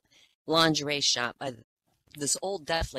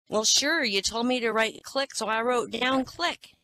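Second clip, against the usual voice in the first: ditzy customer; 7 semitones higher than usual. Acted. Blonde customer in joke.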